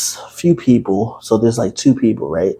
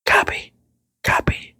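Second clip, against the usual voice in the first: hushed; 4 dB quieter than usual. Acted. Secret sign-off.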